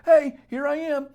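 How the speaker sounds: loud, high breezy guy voice; casual ex. Retold or imitated. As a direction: toss it off like an ex strolling back. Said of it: "all he has to do is say".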